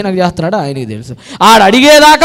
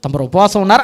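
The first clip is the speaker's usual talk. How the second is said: lower, softer, teasing with a laugh; mock asking a brother if he's fasting; mocking question; 5 semitones lower, 3 dB quieter than usual. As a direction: poke fun at the showy faster. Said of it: "అని అడగాలి".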